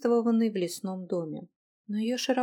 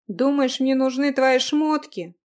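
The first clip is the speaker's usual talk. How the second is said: offended; 4 semitones higher, 7 dB louder, slower than usual. Acted. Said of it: "оскорбился юноша".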